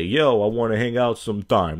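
straight-up, casual pickup line. Acted. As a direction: put it to them directly, no hedging. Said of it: "when you're straight up".

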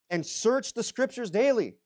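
daily drawn out and lifted high, slow; stress on daily. Shown as a demonstration. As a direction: lean hard on daily and slow the line. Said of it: "Emphasis on daily".

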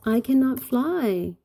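high, loud cry of alarm; storybook cry. A narrator's reading. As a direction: cry out in mock panic. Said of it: "cried Inch".

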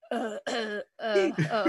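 lightly done presidential hesitation, soft halting uhs; Obama. Acted. Comic testing an impression before the jokes, halting and tentative. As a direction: warm up a faint politician impression. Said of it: "deliver them in an Obama impression".

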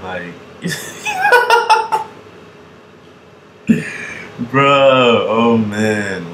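cracking up, loud and drawn out; incredulous laughter. Real, not acted. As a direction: react in laughing disbelief. Incredulous laughing reaction to the clip.

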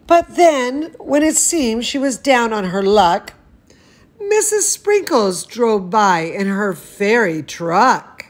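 lively storybook reading voice; animated picture-book narration; reading to children. Acted. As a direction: read it like bedtime story time for a toddler. Reads picture book aloud.

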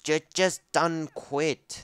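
slow game announcer taunt. Retold or imitated. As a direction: drawl it like the game narrator. Mimics game voice. (voz de anunciador)

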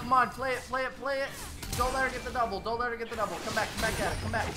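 high, loud urgent hype; loud, high-pitched game excitement; excited calling out. Real, not acted. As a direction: urge your teammate on mid-fight. Calling out a live fight.

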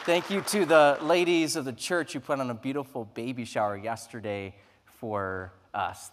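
normal talking voice

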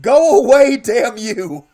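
half-laughing yell, high and loud; 1 shouting at own tears. Real, not acted. Streamer yells at own welling tears, loud and high. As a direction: order the tears away with a sudden yell. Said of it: "I can still feel them trying".

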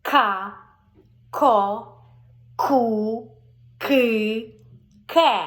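loud, slow syllable drill К Ко Ку Ки Ке; over-articulate each syllable for the child; чітко по складах: К, Ко, Ку, Ки, Ке. Shown as a demonstration. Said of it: "такий як".

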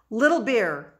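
high, loud desperate yell; panicked shout. A narrator's reading. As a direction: yell his name in terror. Boy calls out in panic.

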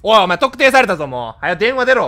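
loud, teasing call-out. Real, not acted. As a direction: shout the news at them. Tells caller they're identified. (特定された相手に大声で電話に出ろと煽る)

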